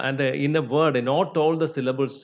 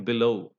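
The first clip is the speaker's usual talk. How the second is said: below with weak be, stressed LOW; accented on the root; 3 semitones lower than usual. Shown as a demonstration. Teacher lists weak-prefix words, below stressed on LOW. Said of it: "accented on the root".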